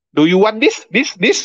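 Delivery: put-on high-pitched broken English with Indonesian accent. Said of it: "Ah, kan gitu".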